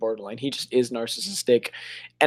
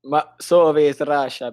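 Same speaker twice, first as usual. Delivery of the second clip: slow mock Russian; a lightly hammed Russian accent; 4 dB louder, slower than usual. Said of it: "I'm doing a horrible accent".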